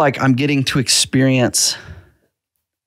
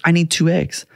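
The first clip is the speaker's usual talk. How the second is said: put-on higher, sing-song kid voice; little daughter voice; 5 semitones higher than usual. Dad voicing his daughter hiding her plan, a higher kid voice. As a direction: play the secretive five-year-old.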